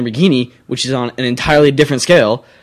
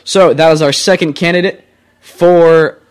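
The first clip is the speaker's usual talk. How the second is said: mock announcer; 4 dB louder than usual. Mock phone-in announcement, then kidding.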